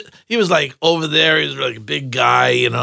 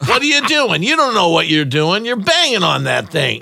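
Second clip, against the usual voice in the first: 1 angry stepfather; 4 semitones higher than usual. Retold or imitated. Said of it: "he just hated to hear that".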